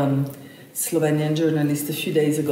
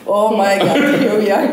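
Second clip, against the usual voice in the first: mock exasperation; 4 semitones higher, 7 dB louder than usual. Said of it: "And I was like".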